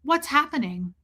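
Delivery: imitated dead-behind-the-eyes auditor; no emotion. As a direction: ask it without any concern. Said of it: "No, no emotion".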